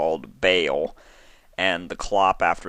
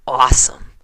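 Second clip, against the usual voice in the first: whisper; 7 semitones higher, 11 dB louder than usual. Acted. Flustered reply mid-conversation.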